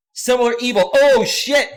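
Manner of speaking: high, loud exclamation; excited surprise. Real, not acted. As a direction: shout out a viewer you're amazed to see. Surprised to spot viewer in chat.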